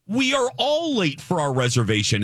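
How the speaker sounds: mild acted outrage; losing it. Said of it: "that's when I lost it".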